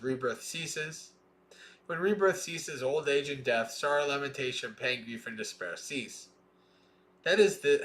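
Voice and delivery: measured, deliberate scripture reading; sutta recitation. Acted. Teacher reading the sutta to students, measured recitation. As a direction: recite each line of the chain steadily.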